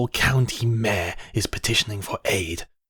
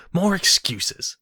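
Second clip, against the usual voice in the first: high, slow, withering contempt; scornful shout; 7 semitones higher, slower than usual. Acted. Emperor scorning the admiral's excuses, slow scornful shout. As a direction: spit the words out slowly.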